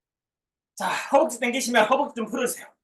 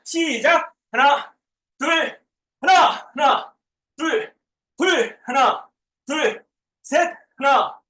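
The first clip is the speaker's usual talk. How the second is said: gym coach; 3 semitones higher than usual. Real, not acted. Counting reps during workout.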